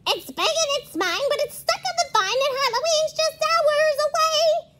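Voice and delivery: high, fast witch voice. Acted. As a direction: cackle it out like a witch. Witch voice in story.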